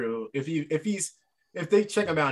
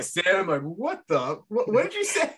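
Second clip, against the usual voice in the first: baffled; 5 semitones higher, slower than usual. Retold or imitated. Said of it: "everybody's like".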